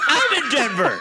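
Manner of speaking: high laughing burst; spit take. Acted. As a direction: splutter it out mid laugh. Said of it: "my first spit take on the show".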